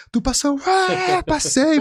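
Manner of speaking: very high squeal of a yes; barely containing the scream; breathless joy. Retold or imitated. Cousin asks if he passed, very high joyful yes.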